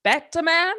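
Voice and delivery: Batman said as "Bat-uh-man"; extra syllable. Acted. Scorsese mangling the hero's name, Batman as Bat-uh-man. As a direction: stretch Batman into three syllables with a laugh. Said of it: "That's a two-syllable word".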